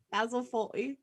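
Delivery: put-on British accent, toned down. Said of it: "tone my voice down".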